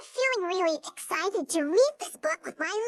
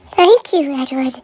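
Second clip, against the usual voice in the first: much louder cautioning coaches' voice; loud coaches; 4 semitones lower, 14 dB louder, slower than usual. Acted. Coaches loudly warning Edward as he comes near. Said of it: "said the coaches".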